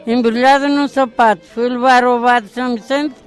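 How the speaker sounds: rhythmic folk verse recitation; reciting a rhyme. Acted. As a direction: chant it like a nursery rhyme.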